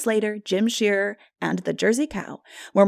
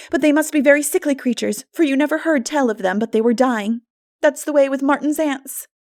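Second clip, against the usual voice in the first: put-on high, louder, chattering young girl; chatty girl; 6 semitones higher, 5 dB louder than usual. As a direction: tell the funny story eagerly. Anne's voice, chatty.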